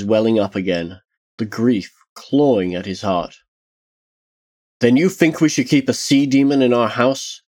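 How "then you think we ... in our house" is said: higher-pitched, mildly indignant challenge; a touch of disbelief in the question; demanding. Acted. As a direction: demand an answer, understated. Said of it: "Tarsia demanded".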